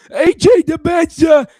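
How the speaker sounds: huge high, drawn-out sportscaster shout; Dickie V. Shown as a demonstration. Host attempting a sportscaster impression, high slow shout. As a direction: holler the name slowly like an excitable commentator. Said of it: "I gotta give a Dickie V impression".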